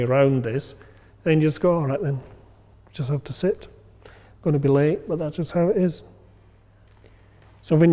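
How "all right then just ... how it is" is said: softer, shrugging acceptance; a quiet sigh of acceptance; calm resignation. Retold or imitated. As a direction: let it go, you'll just be late. Resigned inner voice in traffic.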